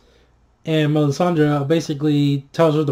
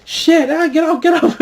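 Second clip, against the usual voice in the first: much higher, panicky yelps to shake off the swarm; mock frantic dragon; 12 semitones higher than usual. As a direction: squeal it like the dragon is covered in termites. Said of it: "He's like".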